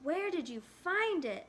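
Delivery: eager, out-of-breath question; breathless. Acted. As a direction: ask breathlessly after rushing. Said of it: "asked Yoon-hae breathlessly".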